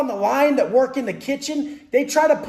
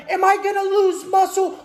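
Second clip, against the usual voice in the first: mocking a worried gym guy; 7 semitones higher than usual. Gym guy fretting to himself about losing muscle, mock whiny and high. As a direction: whine it like a guy scared of losing gains. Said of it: "And he's like".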